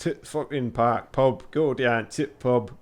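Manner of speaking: rough stab at Yorkshire vowels; attempted Yorkshire accent. Shown as a demonstration. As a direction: test out a bad Yorkshire accent. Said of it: "I can't do Yorkshire".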